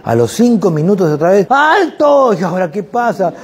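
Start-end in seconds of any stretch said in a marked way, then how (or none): 1.5-2.3 high loud "¡Alto!" to stop the car; loud stop shout; sudden shout. Retold or imitated. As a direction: yell at the driver to stop. Student shouts stop again.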